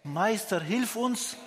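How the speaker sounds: a light retold plea, rising high on hilf uns; mock cry for help. Lepers pleading with Jesus to help, a mild mock cry. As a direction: call out to the master, half-acted, not a full scream. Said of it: "Sie haben zu Jesus geschrien".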